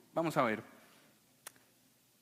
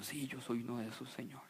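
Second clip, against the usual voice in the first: mock meek reply; 7 semitones lower, 9 dB quieter, faster than usual.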